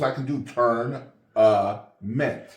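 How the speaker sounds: "turn, mint" said slowly in two separate halves; syllable by syllable. Shown as a demonstration. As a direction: split "turn" and "mint" apart with a pause, each half clear. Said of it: "break it down in syllables".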